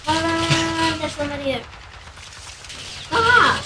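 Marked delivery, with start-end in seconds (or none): 3.1-3.6 startled. Real, not acted. Startled by someone appearing.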